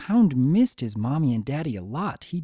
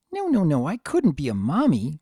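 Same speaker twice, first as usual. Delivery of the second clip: flustered denial; 3 semitones higher than usual. Acted. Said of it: "she told herself".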